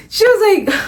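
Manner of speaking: voiceless whisper. Retold or imitated. Imitating her own lost voice.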